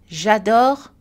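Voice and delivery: "J'adore" with an energetic, clear a; "J'adore", open a, rising; clear French A. Shown as a demonstration. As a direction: give the a of "J'adore" full energy. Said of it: "Prononcez les A et les I".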